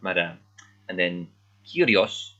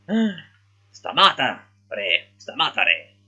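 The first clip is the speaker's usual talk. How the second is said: rescuing shout; 4 semitones higher, 4 dB louder, slower than usual. Retold or imitated. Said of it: "student Beta to the rescue".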